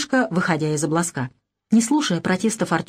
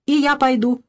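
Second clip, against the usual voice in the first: put-on determined child; 6 semitones higher than usual. A narrator's reading. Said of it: "вдруг решительно заявил Максимка".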